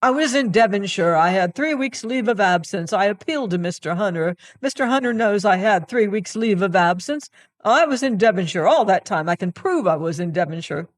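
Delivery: abject, incoherent pleading; wild with apprehension. Acted. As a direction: gabble excuses in panic. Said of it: "so abject, so incoherent, so wild with apprehension".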